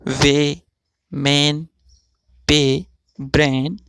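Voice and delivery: वे, मैन, पे, ब्रेन with a long drawn ए; stretched vowels. Shown as a demonstration. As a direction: read each word slowly, pulling the vowel. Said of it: "थोड़ा खींच कर पढ़ा जाता है".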